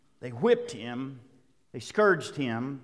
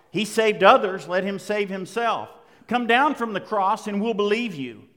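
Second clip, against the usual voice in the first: loud, jeering taunts from the crowd; mocking insults; 4 semitones higher, 7 dB louder than usual. Preacher voicing passersby mocking Jesus, loud jeers. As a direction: taunt him, loud and scornful. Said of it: "they hurled insults at him".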